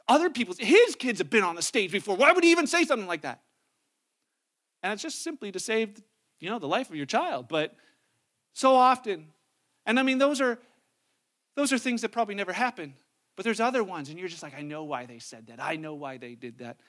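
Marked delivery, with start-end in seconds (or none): 0.1-3.4 louder, hammed-up offended parent; mock indignation. 14.5-16.8 low, quiet knowing murmur; as if sure of the secret motive; smug inner voice. Retold or imitated.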